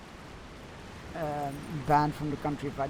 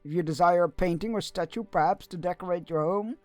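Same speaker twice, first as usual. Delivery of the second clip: lightly voiced busy craftsman, a touch louder; courtly artisan NPC; 3 semitones higher, 7 dB louder than usual.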